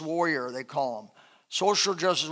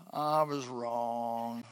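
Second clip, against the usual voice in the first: slow, soft, lower confession; humble admission; 7 semitones lower, 11 dB quieter, much slower than usual. Pretend. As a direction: admit it with effort.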